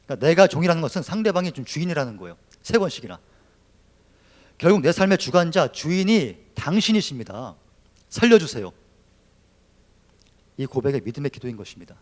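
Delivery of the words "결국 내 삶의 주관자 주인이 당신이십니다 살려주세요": loud pleading cry to God; desperate confession. Acted. Preacher voicing Hannah's desperate confession, loud and pleading. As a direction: call out to your master for rescue. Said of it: "절박함 가운데 터져나오는 이 신앙의 고백".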